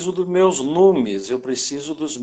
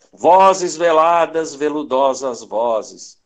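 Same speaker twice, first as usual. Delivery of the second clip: poem recitation; slower than usual. Shown as a demonstration. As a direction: draw out each word of the verse, sinking in pitch. Recites a remembered line of verse. (declamando um verso, bem arrastado)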